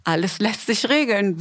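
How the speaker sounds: slow, disbelieving repeat; slow musing echo of the husband's line; puzzled echo. Retold or imitated. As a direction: turn his words over slowly, baffled. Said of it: "In meinem Kopf war, wie?".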